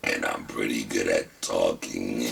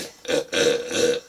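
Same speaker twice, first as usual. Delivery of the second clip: 1 strained breathy laugh; 7 semitones higher than usual. Real, not acted. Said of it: "I can't laugh".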